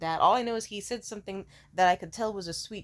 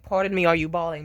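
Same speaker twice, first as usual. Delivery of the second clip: a hint of a sassy, flamboyant quip, louder; campy flirty voice; 9 dB louder than usual. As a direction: camp it up, teasingly. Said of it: "you will see me have my gayest moments".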